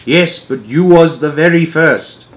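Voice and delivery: slow, lightly voiced giant; giant conceding. A narrator's reading. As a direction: admit it gently as the giant. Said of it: "he said".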